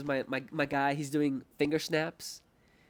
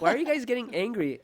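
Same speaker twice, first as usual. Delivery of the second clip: laughing confusion; 10 semitones higher, 8 dB louder than usual. Retold or imitated. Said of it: "I'm like".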